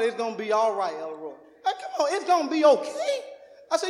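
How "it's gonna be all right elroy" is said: lower, much softer soothing words; soothing mama. Retold or imitated. Son retelling his mother soothing him, soft and low. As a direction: hush him gently like a calm mother. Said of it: "Mama still talking about".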